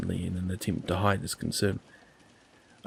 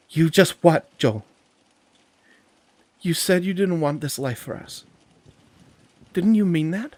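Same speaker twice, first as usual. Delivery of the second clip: much higher and louder, cutting him off; upset outburst; 9 semitones higher, 8 dB louder than usual. Acted. Andy cuts Joel off mid-excuse, high and loud. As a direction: demand an answer, voice rising.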